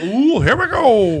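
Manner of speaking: high, slow, thrilled "ooh, here we go"; excited anticipation. Retold or imitated. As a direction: savor the start like a ride about to drop. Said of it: "It's like".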